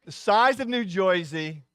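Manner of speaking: another slow go at the New Jersey accent, "Jersey" as "Joysey"; retry the New Jersey accent, drawn out; New Jersey accent try. Shown as a demonstration. Pastor retries the Jersey accent after saying he can't, slow. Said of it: "you can't do the accent".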